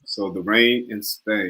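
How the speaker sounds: slow, measured British accent; British accent attempt. Shown as a demonstration. Student practising for the coach, careful British accent. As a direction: say it slowly in careful British English. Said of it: "he's a natural at the British accent".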